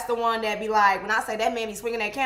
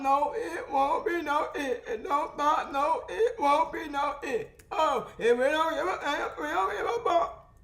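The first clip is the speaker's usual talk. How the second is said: laughing; 6 semitones higher than usual. Real, not acted. Laughing, worship excitement.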